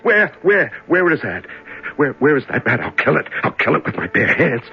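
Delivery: frantic searching. Acted.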